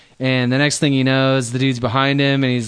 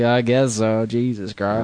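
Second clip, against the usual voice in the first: a hint of a lazy Southern accent; 2 semitones lower, slower than usual. Officials shrugging off the killer, in a light Southern accent. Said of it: "I'm adopting a Southern accent".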